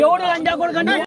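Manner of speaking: high, indignant shouted challenge; angry shout. Real, not acted. Man confronting someone over a swear word, angry. Real quarrel over an insult.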